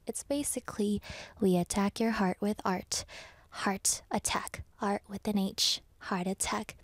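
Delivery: playful whisper. Pretend. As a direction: whisper it like a secret. Playful secret spelling tip.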